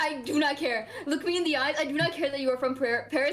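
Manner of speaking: emphatic retold exasperation, word by word; mock threat. Fed up with Parisian friend's corrections, mock threatening. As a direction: deliver a playful, fed-up threat. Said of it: "I'm like".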